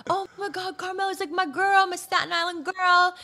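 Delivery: imitating a rapper. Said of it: "He's like".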